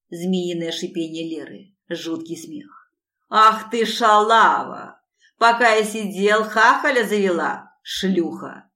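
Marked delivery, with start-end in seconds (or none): 3.3-8.7 loud, slow raging abuse; jealous ex screaming insults at his former wife; furious insults. A narrator's reading. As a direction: spit the insults out. Ex-husband enraged, insulting.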